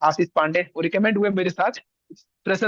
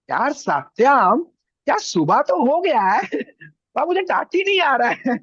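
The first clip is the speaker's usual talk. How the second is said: put-on slow, high South Indian accent, drawn-out and louder; 7 semitones higher, 4 dB louder, slower than usual. Sleepy hostel friend complains to Satyam, in a hammed-up South Indian accent. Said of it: "बात करने का, साउथ Indian type था".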